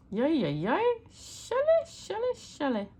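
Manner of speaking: sing-song Southern American drawl, high on shelly; Southern drawl imitation. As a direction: call the name in a playful Southern drawl. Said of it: "in his southern drawl".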